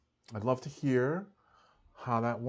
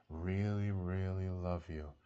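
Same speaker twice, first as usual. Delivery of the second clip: sweetest voice; slower than usual. Shown as a demonstration. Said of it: "in your sweetest voice".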